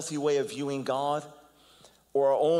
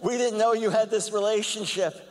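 mock surprise; 7 semitones higher than usual. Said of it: "the critics and the attackers are like".

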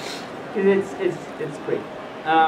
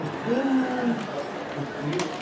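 long, soft storybook gasp; drawn-out quiet gasp for effect; dramatic gasp; 3 semitones higher, 11 dB quieter than usual. Acted. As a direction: draw in breath in mock shock.

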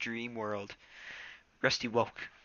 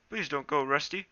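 mildly alarmed plea, pitched up; 6 semitones higher than usual. Acted. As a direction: plead with a friend, a touch of alarm. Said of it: "he mewed in alarm".

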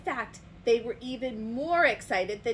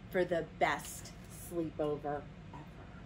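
soft wind-down; 5 semitones lower, 5 dB quieter than usual. A narrator's reading. Storyteller ends Toucan's sleepover tale, softly winding down. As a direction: settle the story toward sleep.

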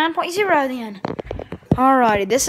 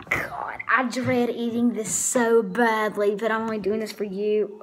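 dreading whisper; 3 semitones lower, 4 dB quieter than usual. Real, not acted. Dreading the nasty plate.

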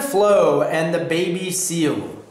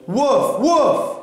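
more insistent bark; 7 semitones higher than usual. A narrator's reading. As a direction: double imitated woof, rising higher. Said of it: "even louder".

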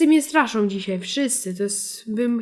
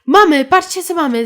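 loud, bright call of discovery; excited shout; 4 semitones higher, 10 dB louder than usual. Real, not acted. Gamer finds a villager and excitedly calls viewers. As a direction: show off the find to viewers.

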